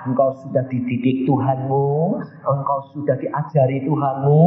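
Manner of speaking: lightly imitated smooth deceiver, phrases rising; gentle false Jesus. Devil posing as Jesus flatters the preacher, gentle. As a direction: recite it gently with lifted endings. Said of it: "dia ngomongnya halus, lembut".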